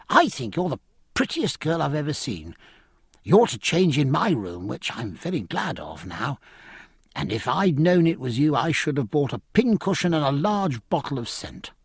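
lightly voiced eager young officer; a hint of emboldened young admirer; flattering young midshipman. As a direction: pay a boyish, earnest compliment. Plays tipsy, flattering young Babington.

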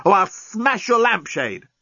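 high, slow, strained threat; choked threat. A narrator's reading. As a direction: threaten through a tightened throat. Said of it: "choked the journalist".

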